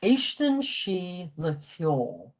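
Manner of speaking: "éiscin sí le ceol" spoken slowly and clearly for learners; careful classroom pronunciation of "éiscin sí le ceol"; slow Irish example. Shown as a demonstration. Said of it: "The verb always starts the sentence".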